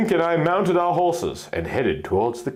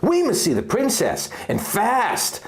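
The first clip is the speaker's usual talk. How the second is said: higher, pressing urgency; urgent hero; 8 semitones higher than usual. Acted. Link urging the guard to let them through, urgent. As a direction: push it out with urgency.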